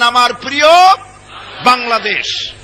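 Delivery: a lightly fond আমার প্রিয় Bangladesh; a touch of tender pride; with love. Shown as a demonstration. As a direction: say it like you love the land. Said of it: "মহব্বতের সাথে বলেন".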